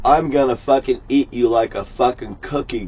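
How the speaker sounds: lightly voiced menacing God; a hint of a wrathful deity; voicing God. A hint of God threatening sinners, menacing. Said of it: "God says".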